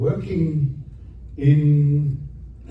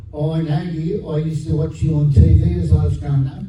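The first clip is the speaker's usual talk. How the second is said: imitated Aussie accent, slightly higher voice; mock Aussie-accented fan; 3 semitones higher than usual. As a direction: play a chatty woman with an Aussie accent. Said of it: "you've got a bit of an Aussie accent".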